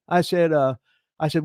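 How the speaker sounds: usual speaking voice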